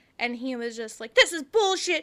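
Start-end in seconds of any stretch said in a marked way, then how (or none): 1.1-2.0 loud, pitched-up yelling. Retelling a man yelling at another guy while being blocked off: retelling him yelling. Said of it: "he starts like yelling at this guy".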